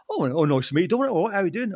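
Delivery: half-hearted, terrible celebrity impression; a barely voiced, badly faked impression; Mark Lamar. Presenter badly imitates a celebrity greeting him, half-hearted impression. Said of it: "Terrible Mark Lamar impression".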